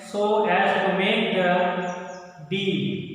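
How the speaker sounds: slow, sing-song classroom reading of the story; slow read-aloud. Acted. Teacher reading a story aloud to children, slow and sing-song. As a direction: read each phrase slowly and deliberately to the class.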